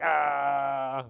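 long, level, drawn-out "ah"; mock gawping "ah". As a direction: hold a vacant "ah" on one note. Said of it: "he just is looking around like".

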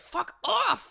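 high, mock-outraged yell; exasperated outburst. Viewer when Azula shows up, exasperated yell. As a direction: snap it loudly at an intruder. Retold reaction to Azula showing up.

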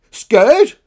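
high, very loud incredulous cry; indignant shout. Acted. Dinosaur hears that others fear her, shouting in disbelief. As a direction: shout it as a shocked question. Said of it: "shouted Karen".

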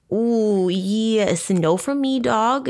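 cheeky no with attitude; sassy refusal. Retold or imitated. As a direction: turn him down with sass. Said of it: "This witness, Janice, said".

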